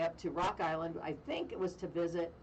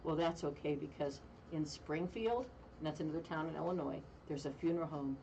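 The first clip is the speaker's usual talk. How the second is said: spooky mortician punchline; 3 semitones lower than usual. Retold or imitated. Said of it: "he goes down".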